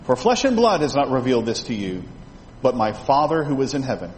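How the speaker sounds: measured, solemn Bible reading; scripture reading. Acted. Reading scripture aloud to class.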